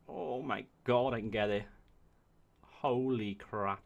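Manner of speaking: drawn-out, slow holy crap; slow stunned exclamation; amazed. Real, not acted. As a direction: stretch it out in awe. Spots Rome within reach.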